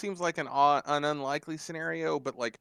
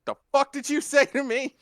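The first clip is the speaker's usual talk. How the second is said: higher, louder hammed-up threat; mock menacing snarl; 13 semitones higher, 8 dB louder than usual. A singer turning another singer around, mock menace. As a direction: snarl it like a mock tough guy. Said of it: "Turn him around and be like".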